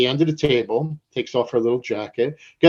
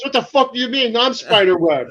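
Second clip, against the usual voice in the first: retold outburst, jumping high in pitch; indignant boss; 9 semitones higher, 4 dB louder than usual. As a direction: imitate an offended boss asserting who he is. Retells boss's indignant outburst.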